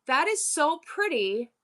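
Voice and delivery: mock sweet chat comment; sweet commenter voice. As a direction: gush kindly over an item. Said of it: "and I say".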